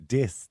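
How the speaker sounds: "Dis" said with a hard d in place of th, Dublin style; Dublin pronunciation. Shown as a demonstration. Host showing how a Dublin singer says "Dis", with the th as a d. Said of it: "That's a very Dublin thing to say".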